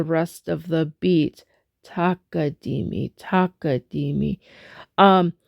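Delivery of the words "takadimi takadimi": Takadimi with the first syllable ta leaned on; softly stressing the downbeat syllable. Shown as a demonstration. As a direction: lean into the ta of Takadimi. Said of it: "put a little emphasis on the ta".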